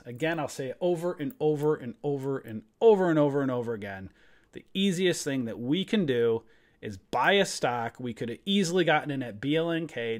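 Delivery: worked-up, emphatic rant; all fired up. Real, not acted. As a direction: drive the point home, fired up. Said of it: "now I'm all fired up".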